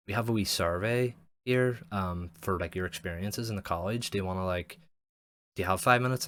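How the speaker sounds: polite caller. Retold or imitated. College caller voiced.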